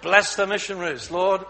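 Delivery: loud, flustered praying; flustered wife blurting out prayers loudly. Acted. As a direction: scramble to pray after being caught.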